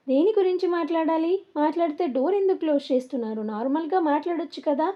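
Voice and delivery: a touch of sharp indignation, quick; firm serious protest. Acted. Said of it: "చాలా గట్టిగా సీరియస్గా మాట్లాడుతుంది".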